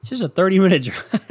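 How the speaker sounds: high put-on reply breaking into a laugh; mock reassurance. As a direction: squeak out that all is well, laughing. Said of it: "I'm like".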